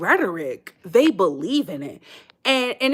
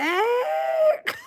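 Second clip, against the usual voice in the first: very high cackling shriek of laughter. Real, not acted. Laughing at the old He-Man Woman Haters Club, shrieking cackle. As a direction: let out a squealing cackle.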